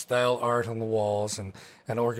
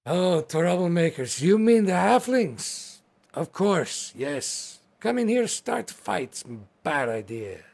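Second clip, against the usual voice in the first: orc hostess voice; 4 semitones higher than usual. Acted. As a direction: play the hearty orc hostess, a touch accented.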